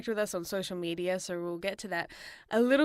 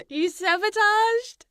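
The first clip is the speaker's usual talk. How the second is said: mock shock; 11 semitones higher, 5 dB louder, much slower than usual. Teasing mock outrage at co-host.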